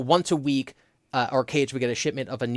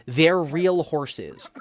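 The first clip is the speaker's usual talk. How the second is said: disbelief; 2 semitones higher, much slower than usual. Retold or imitated. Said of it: "in disbelief, kept repeating the phrase".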